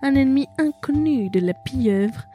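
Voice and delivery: put-on French read in an American accent. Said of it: "Pourquoi tu parles avec un accent américain?".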